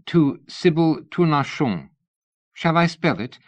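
eager fan. A narrator's reading. Missus Tournachon asking Lady Ada to sign, eager. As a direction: gush a little at the famous lady. Tournachon gives her name.

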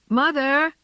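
high calling cry. A narrator's reading. James searches the street, calling for mother. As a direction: call out for your mother. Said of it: "James called".

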